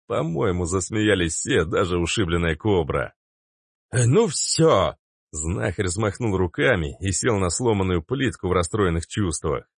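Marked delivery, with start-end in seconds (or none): 3.9-4.9 slow, a bit louder; mild upset huff. A narrator's reading. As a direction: give up in a huff. Healer upset. (расстроенный знахарь)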